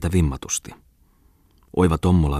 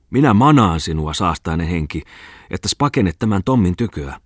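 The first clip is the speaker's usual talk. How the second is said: mock exorcist preaching.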